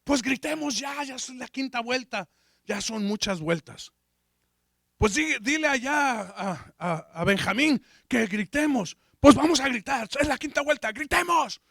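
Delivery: calling out high to the other marchers; eager and pushy, can't wait to shout; impatient urging. Retold or imitated. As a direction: himself at Jericho urging Pedro and Juan to shout now. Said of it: "Le digo".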